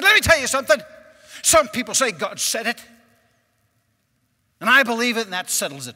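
loud, high imitation of a hollering preacher; imitated red-faced pulpit lecture; preacher's yelled lecture. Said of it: "I've just been yelled at".

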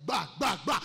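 loud stammering "Ba, ba, ba" in fear; mock frightened stammer. Preacher voicing his mother, scared and stammering. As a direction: stammer like a terrified wife. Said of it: "Mama will say".

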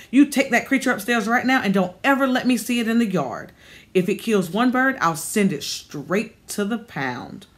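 a hint of a bossy old lady laying down the law; cranky old landlady. Old landlady orders Ashley to take the cat upstairs, stern and bossy. Narrator voices Miss Cooper.

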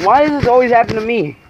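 playing the victim. Real, not acted. Laughing complaint over dead plants.

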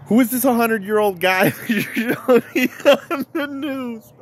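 giggling through the line; half-laughing mock question. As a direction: laugh while you say it.

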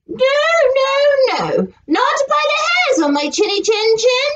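high, quick little pig. Acted. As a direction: squeak out the refusal. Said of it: "said the pigs".

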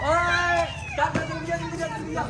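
calling out. Real, not acted. Calling the kid over.

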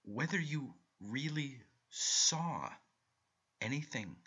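slow, careful words; slowly. A narrator's reading. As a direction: draw it out with caution. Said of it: "he answered slowly".

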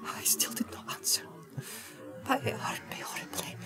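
hushed, halting recollection of pain; frightened whisper. A narrator's reading. Hobbit recounting the torment, frightened whisper. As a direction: whisper it in short, fearful pieces.

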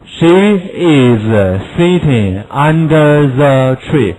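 slow she is kept apart; full she is, not contracted; slow full form. Shown as a demonstration. Teacher gives the full form before she's. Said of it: "she is缩写".

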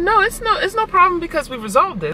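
very high, bright fake-polite voice; sugar-coat it sky-high; overly sweet reply. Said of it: "I said".

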